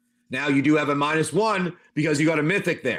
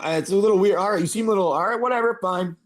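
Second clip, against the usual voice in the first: higher-pitched, hesitant giving in; lightly voiced doctor; 4 semitones higher, faster than usual. Doctor reluctantly agreeing to sell the sword, lightly voiced higher. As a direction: concede lightly in character, pitched up. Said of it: "He goes, "You sure, bud?".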